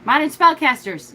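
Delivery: relieved eureka on the correct title; excited realization. Real, not acted. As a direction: blurt the right name in triumph. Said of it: "Yes, that's it".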